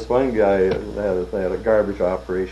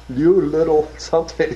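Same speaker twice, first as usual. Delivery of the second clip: slow, high, louder mock insult; retold name-calling; 8 semitones higher, 5 dB louder than usual. Short customer berates the rep, retold mock name-calling. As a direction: draw out the insult, half amused. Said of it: "called me every name in the book".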